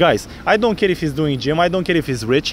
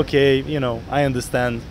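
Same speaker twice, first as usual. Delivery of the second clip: understanding tone; 2 semitones lower than usual. Shown as a demonstration. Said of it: "I'm gonna be like".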